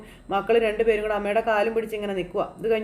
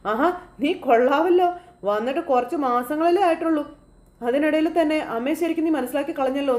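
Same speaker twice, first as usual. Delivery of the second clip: teasing praise; 5 semitones higher than usual. Retold or imitated. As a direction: tease her with exaggerated admiration. Sachi teasingly praises Varsha. (കളിയാക്കി അഭിനന്ദിക്കുന്ന ഉയർന്ന സ്വരം)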